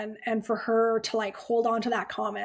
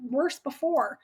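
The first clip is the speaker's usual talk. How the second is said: high, fast, breezy imitation of a doctor brushing it off; mock dismissive doctor; 6 semitones higher than usual. Nurse mimics the doctor waving off her worry, high and breezy. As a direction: toss it off like it's no big deal.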